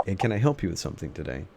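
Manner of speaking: quick polite clerk voice; cheerful shop clerk asking, fast; customer service voice. Acted. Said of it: "picks up where you were... says again".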